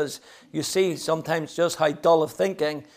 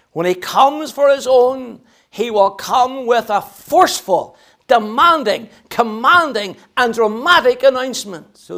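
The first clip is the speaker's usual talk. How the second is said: emphatic pulpit cadence, easing off at the end; forceful preaching; 5 semitones higher, 6 dB louder, slower than usual. Real, not acted. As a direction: punch each adjective in the list.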